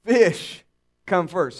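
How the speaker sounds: "Fish" stressed and loud, short pause, then "come first". Shown as a demonstration. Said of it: "Say it with me".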